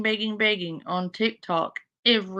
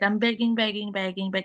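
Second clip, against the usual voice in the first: normal talking voice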